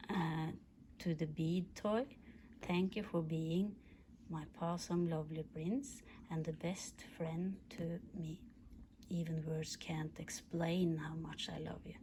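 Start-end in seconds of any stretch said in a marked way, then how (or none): 5.1-11.9 whisper. Acted. Whispered love letter to dog.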